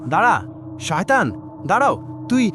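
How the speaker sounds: fast, indignant challenge; angry challenge. Acted. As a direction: confront the villain. Hero confronts villain. (রাগে শয়তানকে থামতে বলা)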